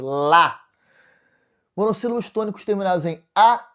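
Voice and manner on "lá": "Lá" hit firmly as one strong beat; strong syllable. Shown as a demonstration. Teacher shows why the monosyllable is tonic, stressed "Lá". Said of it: "essa sílaba é forte".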